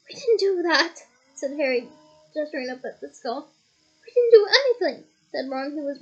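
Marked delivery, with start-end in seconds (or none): 0.1-0.9 loud, high protest; protesting denial. A narrator's reading. Harry protesting loudly to Mr Crouch. 4.1-5.0 loud, high indignant shout; indignant protest. A narrator's reading. Ron shouting indignantly at the Ministry wizards.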